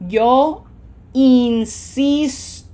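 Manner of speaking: "insisto" slow and loud, extra air pushed into "sis"; emphasis on SIS. Shown as a demonstration. Teacher leading repeat-after-me, "yo insisto" slow with forceful "sis". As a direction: push hard on "sis" in "insisto", smiling both I's into ee. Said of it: "feel your lungs pushing more air, making more of an effort".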